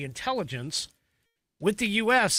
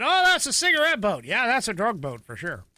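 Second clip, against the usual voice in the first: mock exclamation, high and loud at first, then settling; excited recognition; 5 semitones higher, 3 dB louder than usual. Speaker recalling spotting the boat in a photo, excited recognition. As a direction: blurt it out quickly, then ease down.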